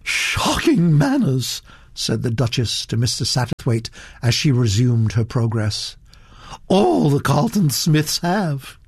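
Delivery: the Duchess holding forth to Mister Satterthwaite, imperious; haughty old Duchess. Acted. Grande dame talking down her cousin's girl, haughty voice.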